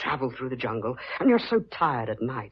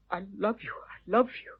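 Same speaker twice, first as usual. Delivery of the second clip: softly pleading, pitched higher; tender declaration; 6 semitones higher, 5 dB quieter than usual. Acted. Man to the woman he loves, tender and urgent. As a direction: declare love quietly, voice lifting. Declaring love, heart thumping.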